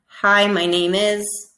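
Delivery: a slow, even "Hi, my name is"; slow model sentence. Shown as a demonstration. Teacher modeling a sentence to feel vibration. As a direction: say it slowly so students can copy. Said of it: "I want you to say".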